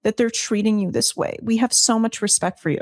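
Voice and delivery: high, simpering mock sympathy; mocking fawning senators. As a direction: ham up the fake fawning apology. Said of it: "There were people defending him".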